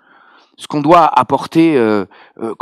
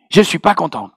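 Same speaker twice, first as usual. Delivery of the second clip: imitated Ivorian sister, displeased; Ivorian accent; 4 semitones higher than usual. Sister tells her pastor she is unhappy, mock Ivorian accent. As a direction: repeat the complaint in an Ivorian accent. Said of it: "avec son bel accent ivoirien".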